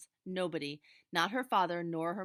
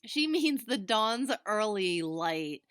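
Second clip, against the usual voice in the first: "She means the dawn's early light" said very slowly, each word pronounced apart, higher and louder; exaggerated distinctness; 4 semitones higher, 7 dB louder, much slower than usual. A narrator's reading. Big sister mocking little sister, each word over-distinct. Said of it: "pronounced each word with exaggerated distinctness".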